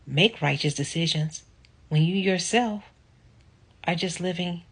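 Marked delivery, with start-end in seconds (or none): 3.9-4.6 trailing whisper. Real, not acted. Indignant rant fading off.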